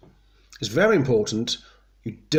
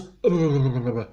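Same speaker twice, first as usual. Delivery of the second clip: wobbly noise from slack jowls; slack-mouthed burble; loose-jowl wobble. Shown as a demonstration.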